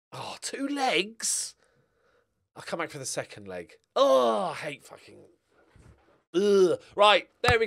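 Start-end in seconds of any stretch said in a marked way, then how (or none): 0.1-1.5 slow whispered surprise; surprised whisper. Real, not acted. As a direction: breathe it out in disbelief. Surprised aside while reading screen.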